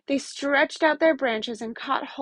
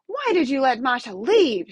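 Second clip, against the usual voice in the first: snarled; 3 dB louder than usual. Acted. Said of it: "she snarled".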